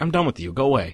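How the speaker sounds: ordinary talk, nothing marked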